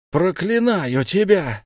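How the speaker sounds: high, loud, slow curse; a wizard cursing the departing god; cursing shout. A narrator's reading. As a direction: hurl the curse after him. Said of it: "закричал Ирдегус".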